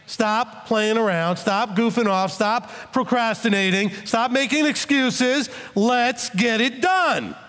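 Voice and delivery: rising exhortation, ending in a shout; a preacher voicing a prophet who builds to a shout; prophet exhorting. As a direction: push them like a prophet cracking the whip. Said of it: "The prophet is just like".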